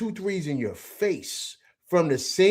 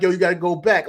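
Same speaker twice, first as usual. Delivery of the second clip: raised voice, lightly re-enacted sideline shout; coach-style yelling; 3 semitones higher, 6 dB louder than usual. Fan playing coach at the TV, mild yell. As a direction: call it out like a frustrated coach. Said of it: "I'm screaming as if I'm the coach".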